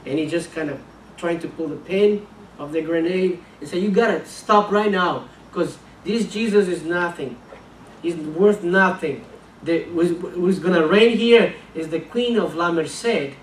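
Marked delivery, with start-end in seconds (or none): 3.8-13.4 raised defiant threat. Retold or imitated. Gunman mocks Jesus.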